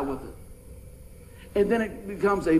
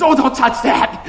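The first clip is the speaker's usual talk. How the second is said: slow mock warning from the friend; friend's warning; 5 semitones higher, 8 dB louder, slower than usual. Friend warning him off the Bible, slow. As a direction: drag it out like the anxious friend. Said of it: "he goes".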